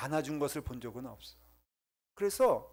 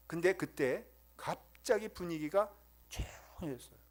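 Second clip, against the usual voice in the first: ordinary talk, nothing marked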